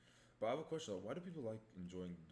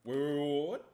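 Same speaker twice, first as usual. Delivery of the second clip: high, loud startled yell; shocked shout; 8 semitones higher, 14 dB louder than usual. Real, not acted. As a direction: shout in disbelief. Shocked outburst.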